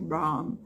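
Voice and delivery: Bram with a wide open A, slowly. Shown as a demonstration. Teacher showing students the Irish way, open A in Bram. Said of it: "O som do A, ele é mais aberto".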